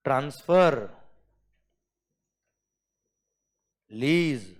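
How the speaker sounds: very slow, with long pauses between list items; slow classroom dictation. Shown as a demonstration. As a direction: read each term out for students to write down. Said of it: "जिस speed से मैंने बोला ना बेटा".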